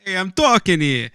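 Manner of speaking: put-on a light try at a New York accent; New Yorker catchphrase, lightly put on; mock New York accent. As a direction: play the New Yorker, pitched a bit high. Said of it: "You don't sound like a New Yorker".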